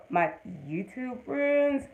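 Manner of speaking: "YouTube friends" drawn out with pointed spacing; loosely meant, pointed. Real, not acted. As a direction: stretch "YouTube friends" as if in quote marks. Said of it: "and I use that very loosely".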